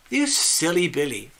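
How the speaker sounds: a hint of fond British teasing on "You silly Billy"; affectionate teasing. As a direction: gently tease a friend being daft. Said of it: "So the way they would say that was".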